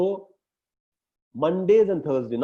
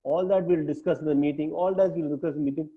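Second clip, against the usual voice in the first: gentle nudge. Shown as a demonstration. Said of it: "very gently nudge and say".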